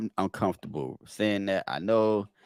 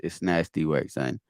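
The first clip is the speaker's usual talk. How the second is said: low, drawn Quiddy catchphrase; 3 semitones lower than usual. Pretend. Reacting to the same bar in a lightly voiced Quiddy. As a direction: lean into it like Quiddy. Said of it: "Quiddy voice".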